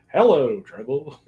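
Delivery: slow country twang impression; a country singer's voice. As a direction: drawl it like a country singer. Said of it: "sounded like Buck Owens".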